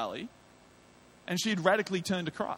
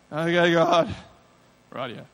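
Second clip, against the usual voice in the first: reluctant obedience; 9 dB louder, slower than usual. Retold or imitated. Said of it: "reluctant obedience".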